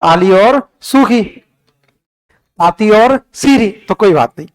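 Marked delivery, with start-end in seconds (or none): 0.0-1.2 "आली और सूखी" said slowly and evenly; slow recital. Shown as a demonstration. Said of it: "culture में ऐसे पढ़ेंगे". 2.6-3.7 "ताती और सीरी" said slowly, word by word; slow recital. Shown as a demonstration. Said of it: "culture में ऐसे पढ़ेंगे".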